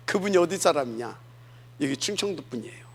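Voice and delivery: ordinary talk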